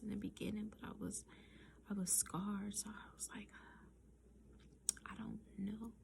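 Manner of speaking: whispered storytelling, breathy and hushed; soft whisper. Real, not acted. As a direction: tell it all in a hushed whisper.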